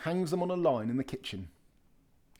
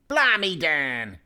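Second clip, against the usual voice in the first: surprised exclamation; 3 semitones higher, 6 dB louder, slower than usual. Acted. Bill finds something in the box.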